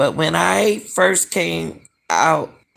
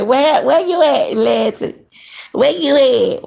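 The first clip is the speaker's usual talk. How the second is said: mock frantic asking; 9 semitones higher than usual. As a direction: act out the desperate question she never asked. Mocking what friend should've said.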